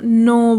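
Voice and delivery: नो with the o drawn out; lengthened o in नो, left open; long vowel. Shown as a demonstration. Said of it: "vowel को long pronounce करते हैं".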